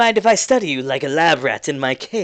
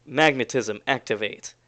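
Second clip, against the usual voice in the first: lower, softer, intoned chant; solemn incantation; 5 semitones lower, 4 dB quieter than usual. Acted. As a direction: recite it like a secret power spell. NPC chants activation phrase.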